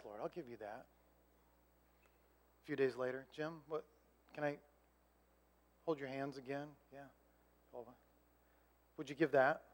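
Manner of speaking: a hint of a soft, hushed voice; hushed retold prayer. Pastor retelling God asking for his hands, hushed.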